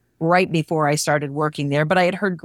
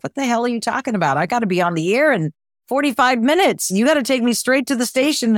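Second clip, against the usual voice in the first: higher, fast, disbelieving rush; exasperated protest; 5 semitones higher, faster than usual. Retold or imitated. To the girlfriend at the airport, fast, disbelieving protest. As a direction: blurt it out in alarm at the plan.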